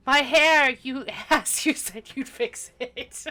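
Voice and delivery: mock teary. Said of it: "huge tears are gonna well up".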